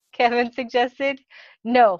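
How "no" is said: loud, mild shout. A narrator's reading. Boss rejects a name suggestion, shouting. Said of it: "Michael shouted".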